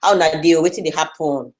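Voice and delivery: easygoing Nigerian Pidgin greeting. Shown as a demonstration. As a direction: switch into casual Nigerian Pidgin. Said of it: "instead of speaking like this, I'll be like".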